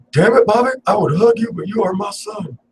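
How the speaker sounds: high excited yell at Bobby, then slowing down; excited outburst. Real, not acted. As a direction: burst out in fake exasperated love.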